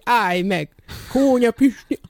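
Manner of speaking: imitated shouting. Villagers shouting after the runaway combine driver, imitated shout. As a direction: call out high and loud, as if after someone. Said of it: "Azok meg kiabálták".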